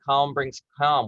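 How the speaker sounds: slow, settled and even; calm phrase. Shown as a demonstration. Coach showing the phrase that turns the dimmer down, slow and calm. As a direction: ease the words out to calm down. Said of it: "what do you think it's gonna do".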